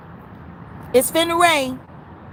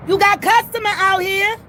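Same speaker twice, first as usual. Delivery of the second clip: higher, angrier complaint at the window; heated rant; 5 semitones higher than usual. Real, not acted. Customer at the window complains about staff, heated. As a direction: let them have it, fed up.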